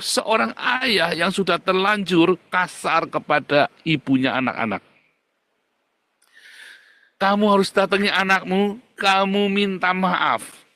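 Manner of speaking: loud slow preacher's rebuke; preaching at full force. Acted. Preacher rebuking the fathers in the pew, loud and slow. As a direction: thunder it from the pulpit.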